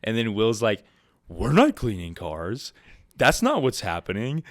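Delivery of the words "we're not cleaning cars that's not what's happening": sassy. Retold or imitated. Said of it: "gets all sassy with this guy".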